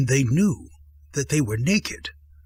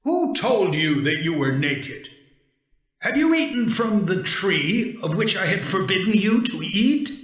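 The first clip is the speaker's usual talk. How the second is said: rising, quick demanding question; God questioning the hiding man; 6 semitones higher than usual. Acted. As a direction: press him for the truth.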